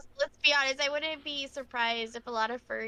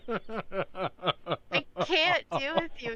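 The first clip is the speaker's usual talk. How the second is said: laughing; much slower than usual. Real, not acted. Laughing at friend's voice.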